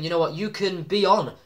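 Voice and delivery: lightly acted wrestling promo; a touch of a wrestler's emphatic challenge; Triple H. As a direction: deliver a measured ultimatum to a rival. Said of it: "saying to Sting".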